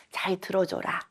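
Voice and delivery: a hushed whisper of a teacher's advice. Retold or imitated. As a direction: breathe it out like a secret.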